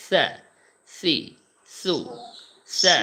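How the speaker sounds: সা সি সু said soft and light; teacher showing soft সা সি সু; soft light syllables. Shown as a demonstration. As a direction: model সা, সি, সু softly and lightly. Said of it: "আরেকটু নরম করতে হবে হালকা করে".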